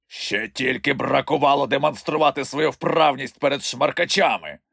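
a touch of sneering pride; haughty snort. A narrator's reading. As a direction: look down on the kids. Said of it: "погордливо пирхнув Морошиний Лев". (трохи погордливо)

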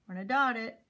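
ordinary talk

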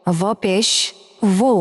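ভো with its consonant pushed clearly out; articulated letter demo. Shown as a demonstration. Teacher shows learners the letter, ভো carefully articulated. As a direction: push out the first sound of ভো. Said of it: "যেভাবে বের করে ভ অক্ষরটা".

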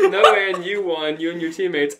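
emphatic. Shown as a demonstration. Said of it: "he said".

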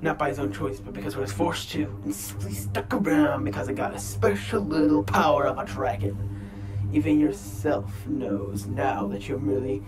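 a Spartan god mocking his foe; booming god voice. Kratos scorns the boy.

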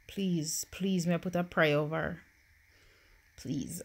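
soft, breathy begging prayer; whispered plea. Real, not acted. Gamer praying over her dying Sim, whispered plea. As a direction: beg quietly, almost under the breath.

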